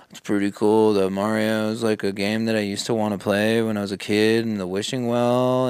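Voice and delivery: low, meandering imitation of a rambler; mock rambling. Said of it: "like some Joe Biden rambling".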